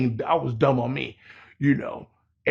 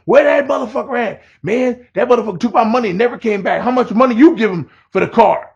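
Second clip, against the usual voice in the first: mock angry yelling; 5 semitones higher than usual. Cheated buyers yelling at Miguelito about the seller, mock angry. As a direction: play the cheated buyers demanding where the seller is. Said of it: "get out the car to yell at him".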